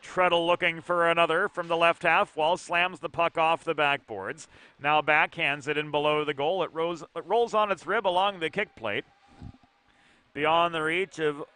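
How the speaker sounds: brisk hockey call, following the puck; live play-by-play. Acted. Play-by-play caller describing the hockey game, brisk and steady. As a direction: call the action as it unfolds.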